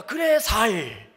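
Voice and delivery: slow mock Gyeongsang 살 with ss softened to s; Gyeongsang accent. Preacher mimicking a Gyeongsang speaker saying 살 for 쌀. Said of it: "언제나 살로 밥을 하시는".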